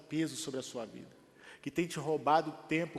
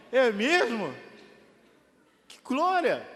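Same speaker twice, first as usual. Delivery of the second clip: joyful exclamation; 5 semitones higher, 9 dB louder, slower than usual. Retold or imitated. Joyful response retold.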